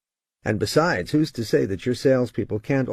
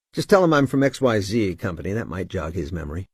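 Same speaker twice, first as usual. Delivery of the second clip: tone of authority. Shown as a demonstration. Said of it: "keep a tone of authority".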